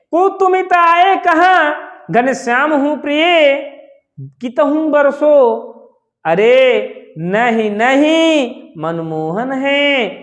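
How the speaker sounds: slow, drawn-out line endings; verse recitation. Shown as a demonstration. Teacher reciting the Radha-Krishna verse to students, measured recitation. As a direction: recite the couplet slowly, stretching the last words.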